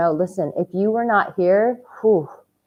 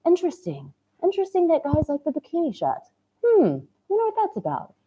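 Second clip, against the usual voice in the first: teasing; 8 semitones higher, 4 dB quieter than usual. Real, not acted. Teasing mock puzzlement about bikini shots.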